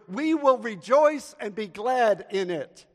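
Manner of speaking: loud, lifted congregational proclamation; rousing call. Real, not acted. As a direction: call it out for the church to echo. Gives congregation a line to repeat.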